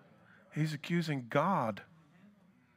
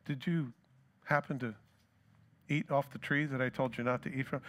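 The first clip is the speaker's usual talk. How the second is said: a softer, gentle ask from a loving father; gentle graceful question; 4 dB quieter than usual. Retold or imitated. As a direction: coax it out kindly, no accusation. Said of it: "a direct question with grace".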